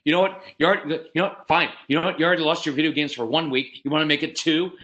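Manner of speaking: acted exasperated, insistent dad; escalating threats. Father taking away video games, fed up. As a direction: pile on punishments impatiently. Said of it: "I would escalate things".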